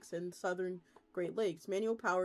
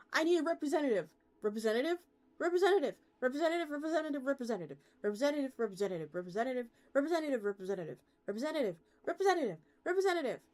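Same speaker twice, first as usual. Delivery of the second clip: frantic yelling; 5 semitones higher, 4 dB louder, much faster than usual. Acted. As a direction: shout for a representative over and over, higher and louder in bursts. Yelling for a phone representative.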